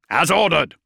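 high, loud soldierly reply; sharp acknowledgement. Acted. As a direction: snap back your reply.

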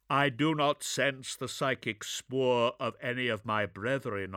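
grave commanding soldier; gruff space marine. Acted.

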